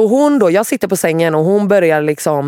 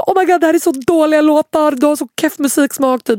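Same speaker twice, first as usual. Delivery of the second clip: put-on high, sneering mean-girl voice; mean girls mocking her taste in music, in a high sneering voice; 10 semitones higher than usual. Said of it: "De typ gick in på min Spotify och bara".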